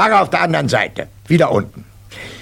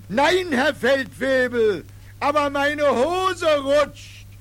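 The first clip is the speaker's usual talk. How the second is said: meek recruit; 12 semitones higher, 5 dB quieter, slower than usual. Acted. Recruit answers sheepishly.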